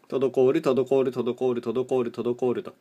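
monotone text-to-speech reading; deadpan meme voice. Retold or imitated. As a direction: repeat it like a speech robot. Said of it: "棒読みちゃんがずーっとその漢字を読むと".

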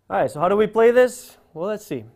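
ordinary talk, nothing marked

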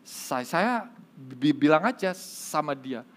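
imitated stutter throughout the tale; gagap. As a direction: stammer through the story, repeating first sounds. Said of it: "orang gagap ini bilang". (menirukan orang gagap bercerita)

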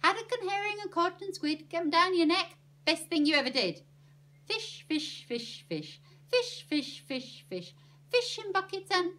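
loud, high, rhythmic fish chant; punchy run of alliterative cries; energetic fish patter. Acted. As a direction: belt out the list with a bouncing beat.

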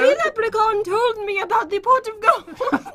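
put-on playful go at an Irish accent; attempted Irish accent. Trying to get the lost accent back, attempted Irish accent. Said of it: "The accent is gone".

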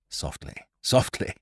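hushed unvoiced caution; calm him down under breath; whisper. A narrator's reading. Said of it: "said Ned".

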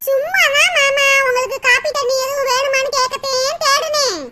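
wheedling, casual pretence; coaxing. Acted. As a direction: draw it out sweetly to butter him up. Coaxing uncle before asking for money.

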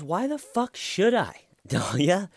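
hammed-up angry husband; mock outrage. Mike refusing angrily.

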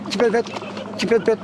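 short, bare two-part chirp; unflavourful bird call. Shown as a demonstration. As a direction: imitate a finch's dull short çipet pet. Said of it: "lezzetli çipet pet değil". (lezzetsiz, kısa çipet pet taklidi)

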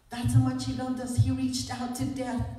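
forceful, emphatic sermon climax; impassioned preaching. Real, not acted. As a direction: drive the message home to the congregation.

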